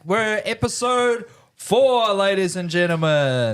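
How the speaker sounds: high-pitched yelled show welcome, easing off by the end; hype-man holler that settles down; yelling. Real, not acted. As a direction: yell the welcome, stretching out the episode number. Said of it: "you don't need to yell".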